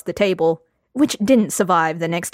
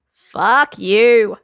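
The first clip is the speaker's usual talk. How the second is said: put-on drunken retort; 3 semitones higher, 4 dB louder than usual. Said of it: "Lambert said".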